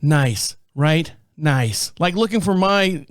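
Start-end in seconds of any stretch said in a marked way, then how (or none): 0.0-1.9 deadpan. Retold or imitated. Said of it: "she looks at me like deadpan".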